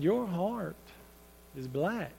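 soft, halting retold bad news; grave, quiet. Father breaks hard news to daughter.

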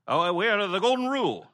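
high, breezy mock answer; mock airy reply. Preacher mocks a vague non-believer, high and breezy. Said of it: "You know what they're gonna say?".

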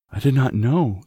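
distressed protest to the officer; frightened cry. A narrator's reading. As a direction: cry out in defence, panicked. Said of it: "the Mem Sahib cried".

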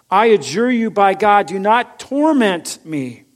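loud, high begging cry; desperate plea. Acted. Demon begs Jesus not to torment it, loud and desperate. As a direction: plead as though terrified of torment.

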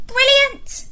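high, bright praise; excited praise. Acted. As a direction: cheer them on.

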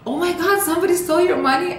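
high, fast gasp of disbelief; husband hearing her money was stolen, high shocked rush; retold shock. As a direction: blurt it out high and rushed, stunned.

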